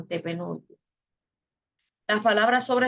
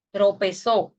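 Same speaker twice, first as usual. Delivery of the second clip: Tropezó with the final syllable zó stressed and a touch louder; stressed last syllable; 4 dB louder, slower than usual. Shown as a demonstration. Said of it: "podemos ver una palabra que tropezó".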